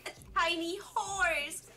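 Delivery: put-on bubbly sorority girl; breezy Valley Girl lilt, rising; Valley Girl accent. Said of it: "my Valley Girl accent".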